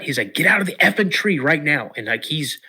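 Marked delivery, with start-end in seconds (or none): 0.3-1.9 higher, louder urgent command; father urgently ordering son out of the tree; dead serious. Retold or imitated. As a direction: order him down, no joking now. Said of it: "dead serious".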